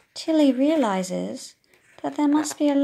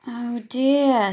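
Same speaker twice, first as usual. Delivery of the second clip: teacher dismayed; 7 dB louder than usual. Acted. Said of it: "says the teacher".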